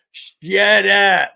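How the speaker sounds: loud, high yell from the floor; imitating Stephen Curry. Injured player answers the chanting crowd, mock exasperated yell. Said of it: "Curry's laying on the ground going".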